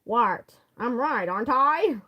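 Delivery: a lighter try at a dopey voice; sillier, half-laughing take; stupid voice. Acted. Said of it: "I wanna give him the stupidest voice".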